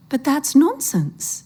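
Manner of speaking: high, slow, amused indulgence; smiling. A narrator's reading. Old woman indulging the scared man, slow smiling voice. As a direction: humour him with a smile. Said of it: "she says, smiling".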